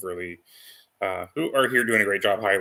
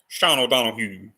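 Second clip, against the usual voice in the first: badly faked English or Scottish accent; amateur stab at a Scottish accent; terrible Scottish accent; 2 semitones higher, 3 dB louder than usual. Shown as a demonstration. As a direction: try a Scottish lilt and miss. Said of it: "that was a really terrible English or Scottish accent".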